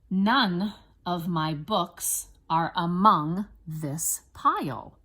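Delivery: slow, separated words with clear stresses; teacher's deliberate word-by-word reading; spelling dictation. Shown as a demonstration. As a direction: dictate it slowly for first graders to write.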